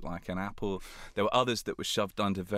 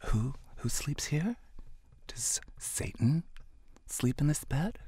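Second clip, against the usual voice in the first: higher, incredulous boss voice; outraged boss; 7 semitones higher, slower than usual. Retold or imitated. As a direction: let the disbelief build, whisper Satan. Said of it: "And he goes".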